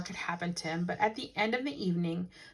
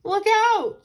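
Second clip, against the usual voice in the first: frantic high shout, much louder; 13 semitones higher, 10 dB louder than usual. Acted. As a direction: yell a warning, pitch way up. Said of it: "shouted the man".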